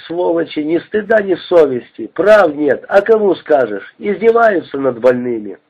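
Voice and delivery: ordinary delivery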